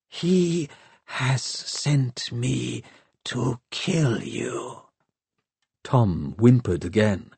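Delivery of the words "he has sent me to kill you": soft, very slow inhuman voice; calm, deadly machine stating facts; cold machine voice. A narrator's reading. Shrike the machine threatens Hester.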